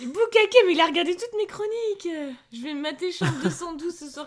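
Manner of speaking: loud, high, thrilled; excited. Real, not acted. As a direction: burst out with delight. Excited reading of viewer message.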